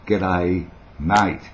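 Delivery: broad Aussie greeting; Australian accent. Shown as a demonstration. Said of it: "that's the way it is".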